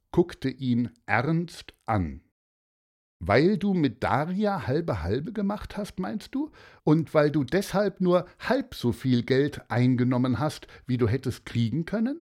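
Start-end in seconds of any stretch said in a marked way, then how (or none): 3.2-12.2 raised, pointed checking questions; probing father. Acted. Father asking Martin about earning only half, lightly probing. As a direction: press the boy with questions.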